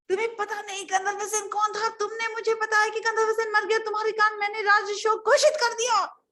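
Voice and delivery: high-pitched indignant tirade; outraged king. Acted. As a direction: berate the minister in disbelief. King scolds minister. (भड़के राजा की डाँट)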